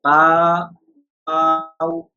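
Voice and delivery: "ba, bow" said gently, without stretching; "bow" short, glided, no held vowel; leen pronunciation. Shown as a demonstration. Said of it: "according to Arabic accent".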